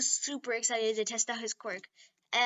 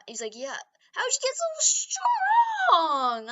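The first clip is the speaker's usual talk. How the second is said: amazed classmates; 2 semitones higher, 4 dB louder than usual. Retold or imitated. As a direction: gasp in amazement.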